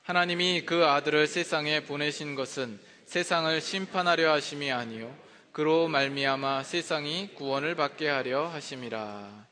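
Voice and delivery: solemn Bible reading to the congregation; scripture reading. Acted. Pastor reads the verse to the congregation, solemn reading.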